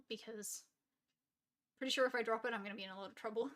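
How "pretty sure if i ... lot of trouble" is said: slurping. Real, not acted. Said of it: "sorry about the slurping noises".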